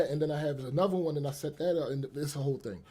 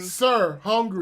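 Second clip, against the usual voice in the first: mock begging; 3 semitones higher, 5 dB louder, much slower than usual. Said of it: "speech patterns that she uses when she be out begging".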